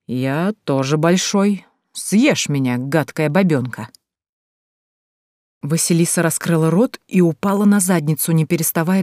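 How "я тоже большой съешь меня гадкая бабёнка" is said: drawling tease. Acted. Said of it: "улыбнулся и протянул".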